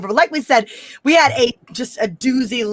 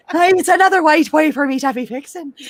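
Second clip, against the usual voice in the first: higher, hammed-up Wakandan accent; mock Wakandan accent; 4 semitones higher than usual. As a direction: play Shuri in a hammy Wakandan accent. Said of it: "I can't do the Wakandan accent".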